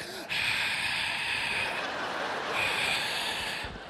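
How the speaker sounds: long soft exaggerated sigh; long dramatic sigh. Son hauls trash for dad, heaving a long dramatic sigh. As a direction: sigh like a teenager put upon. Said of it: "He's like".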